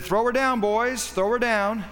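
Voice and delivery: king bellowing to his men from the wall; calling out an order. Acted. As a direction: shout the order down to the men below. King orders woman thrown down.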